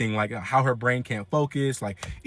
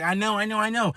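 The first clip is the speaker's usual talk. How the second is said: higher, dismissive grandma; 6 semitones higher than usual. Retold or imitated. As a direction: brush him off like a nana. Grandma voiced brushing off.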